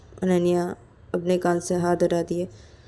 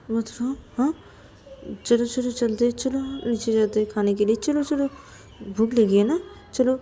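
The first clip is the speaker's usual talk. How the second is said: higher-pitched pleading coax; gentle coaxing; 5 semitones higher than usual. Acted. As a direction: coax a tearful friend along. Coaxing crying friend to eat. (मनाते हुए, लाड़ भरी मिन्नत)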